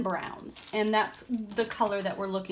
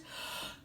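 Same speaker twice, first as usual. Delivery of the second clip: yawn; 14 dB quieter than usual. Real, not acted. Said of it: "I'm yawning".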